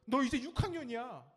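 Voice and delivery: high, loud mock scolding; nagging parent. Parent to a fifth-grader, mock nagging. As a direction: imitate an exasperated parent. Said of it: "그때 이런 소리 들어요".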